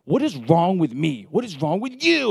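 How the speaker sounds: a touch of mock despair, asking the grass why; half-mocking exasperation at the dying lawn; exasperated self-talk. Retold frustration over dying grass.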